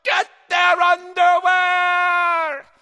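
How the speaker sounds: high, loud, drawn-out battle cry; calling to crew. Acted. Stinky Ann urging her crew into battle, shouting. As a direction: stretch the order over the din. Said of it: "Stinky Ann called to her crew".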